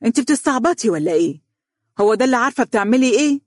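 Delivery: a mother's outraged telling-off; mother exclaiming. Acted. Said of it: "هتفت بها والدتها".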